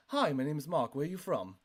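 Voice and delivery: easy, natural Cockney, let it flow; Cockney accent. Shown as a demonstration. Giving a free voice lesson, in natural flowing Cockney. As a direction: demonstrate a relaxed Cockney accent. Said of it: "It's like this Cockney".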